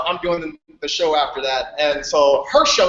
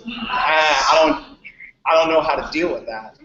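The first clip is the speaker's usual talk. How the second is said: mild retold fear; 2 semitones lower than usual. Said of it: "fear in his eyes that I can recognize".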